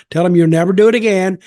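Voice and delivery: commanding order. Retold or imitated. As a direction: snap the order down at him. Teller orders the guy, retold.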